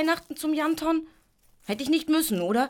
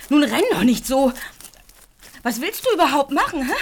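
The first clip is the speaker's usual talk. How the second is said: calling out; 2 semitones higher, 5 dB louder than usual. Acted. Calling after a running donkey.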